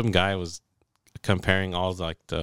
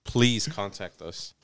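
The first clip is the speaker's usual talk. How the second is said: injury lawyer ad. Pretend. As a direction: read it like a TV lawsuit ad. Mock lawyer commercial.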